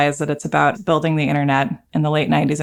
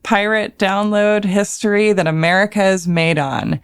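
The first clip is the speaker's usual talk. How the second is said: energy drink ad; 3 semitones higher than usual. Acted. Hyped show intro.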